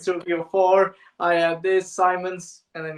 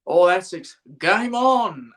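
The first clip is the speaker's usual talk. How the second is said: Richie Bernard; 4 dB louder, slower than usual. Retold or imitated. Commentator greeting a six in a lost game, ambiguously sarcastic. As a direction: call it like a wry commentator. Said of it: "whether he's being sarcastic or not".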